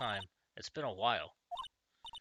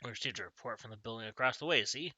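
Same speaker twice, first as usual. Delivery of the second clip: put-on a touch of Southern-accented police detective; lightly voiced Southern accent. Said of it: "I gave him a southern accent".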